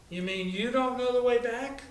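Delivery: a hint of shocked dismay; alarmed surprise. Lost girl realizes friend doesn't know.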